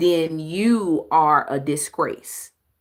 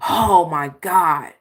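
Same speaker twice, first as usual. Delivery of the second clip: mock exasperated huff; 3 semitones lower than usual. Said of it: "I'm huffing and puffing".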